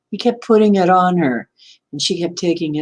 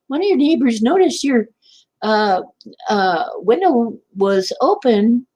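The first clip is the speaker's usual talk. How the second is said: officer on the phone; 5 semitones higher than usual. Retold or imitated. Retelling the police officer's call.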